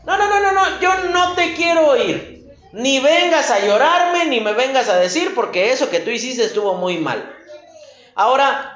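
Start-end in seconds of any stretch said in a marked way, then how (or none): 0.0-7.3 angry parent. Retold or imitated. Parent refusing child again.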